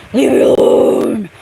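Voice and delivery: loud shouted leave me alone; shouting. Pretend. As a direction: yell it out. Shouts at trainer.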